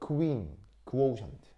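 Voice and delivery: "퀸" as "크윈", "크오우션트" as "크-워우션트". Shown as a demonstration. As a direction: keep a separate "크" in "퀸" and "크오우션트". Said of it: "발음이 분리가 돼 있는 거라고". ("퀸"과 "크오우션트"에서 "크"를 분리해 발음)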